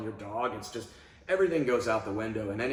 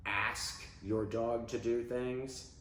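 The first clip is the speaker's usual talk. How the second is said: asking; 4 dB quieter, slower than usual. Shown as a demonstration. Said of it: "Tell your dog to do things".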